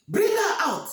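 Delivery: high, loud royal order; commanding shout. Acted. King shouting to his men to fetch Olama. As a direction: bark the order across the square.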